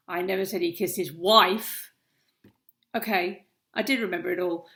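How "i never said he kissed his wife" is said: wife given the final weight; stress on wife. Shown as a demonstration. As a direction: save the push for wife. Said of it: "That is a great demonstration how, of how tone of voice completely changes a sentence".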